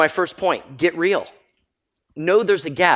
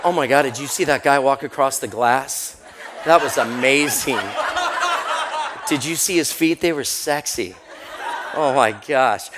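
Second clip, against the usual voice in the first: excited gushing. Retold or imitated. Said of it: "You know, like".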